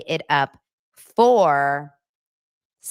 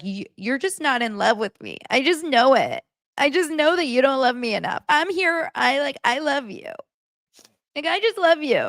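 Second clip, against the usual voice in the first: put-on high, pleading girlfriend whine; mock her clingy insistence, pitched way up; whiny Annie; 9 semitones higher than usual. Mocking Annie begging Nick to say he loves her, high whine. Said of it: "she was like".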